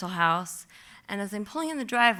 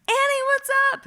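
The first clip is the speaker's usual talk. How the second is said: cheerful friend answering; 7 dB louder than usual. Retold or imitated. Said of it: "he just answers right away".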